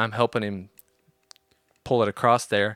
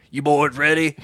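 raised, punchy hillbilly call; 5 semitones higher, 4 dB louder than usual. Retold or imitated. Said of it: "real hillbilly dude".

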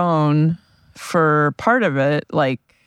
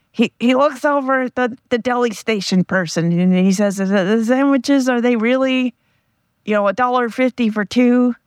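higher, put-on voice imitating a friend's bad Gilbert Gottfried; a second-hand, hammed-up celebrity voice telling a deli joke; friend's Gilbert Gottfried impression; 7 semitones higher than usual. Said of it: "try to impersonate my friend telling the joke".

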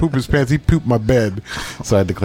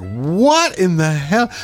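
baffled; 4 semitones higher, much slower than usual. Retold or imitated. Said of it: "And I'm like".

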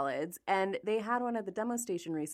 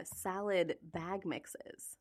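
whispering; 9 dB quieter, much slower than usual. Real, not acted. Trails into whisper.

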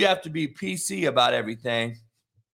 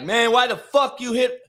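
heated mock-player protest, raised pitch; imitated angry teammate; 4 semitones higher, 4 dB louder than usual. Player chewing out teammate over quarterback hit, heated imitation. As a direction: act out a teammate's outburst. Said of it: "came out and was like".

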